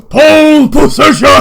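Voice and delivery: high, very loud hammed-up scream; screamed battle cry. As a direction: scream it as Vlad's war cry. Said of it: "And then he screams".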